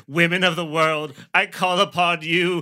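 slow rising cry to the heavens; impassioned theatrical plea, climbing in pitch; dramatic invocation. Acted. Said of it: "fire burning in my... and I say".

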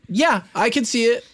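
high-pitched, hesitant agreement; doubtful hmm. Real, not acted. Friend doubting the movie idea, high and noncommittal. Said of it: "the little hmm in your voice".

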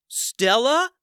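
high, loud disbelieving call. Acted. Ben Ben calls out to Stella across the battlefield, startled. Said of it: "Ben Ben called out".

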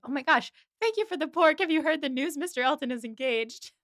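high, gushing Miss Bates voice; excited gossip. Retold or imitated. Retelling Miss Bates bursting in with gossip, high and gushing. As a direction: bubble over with the news.

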